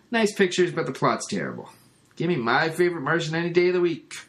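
Cliff's voice. Retold or imitated. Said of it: "that's when Cliff says".

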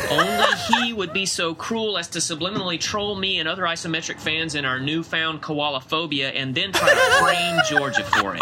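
laughing through the words, rising high; cracking up mid-rant. Real, not acted. Mock outrage at a prank.

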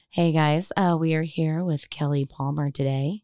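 lightly voiced public radio host; a hint of calm NPR interviewer. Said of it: "we can turn into an N P R podcast".

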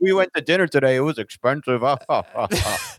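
mocking yuppie, starting high and easing down; Frasier. Cohost ridiculing the other's favorite show, mocking Frasier impression. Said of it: "that's not a bad impression".

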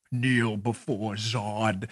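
slow, low, quiet menacing command; Zod line. Pretend. Quoting the Superman villain, slow menacing command. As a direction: growl it slowly like a tyrant.

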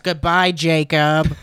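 Jesus as a lightly voiced Jewish accountant. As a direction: say goodbye like a mild accountant. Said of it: "Jewish accountant voice".

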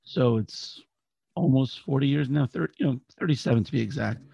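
raspy, worn-out voice; hoarse from cheering all night; hoarse cry. Real, not acted. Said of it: "As you can tell, I lost my voice a little bit".

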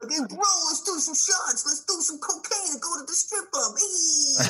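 hammed-up finance bro whooping; mock bro voice. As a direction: play a hyped banker bro egging on. Mocking Manhattan banker guys.

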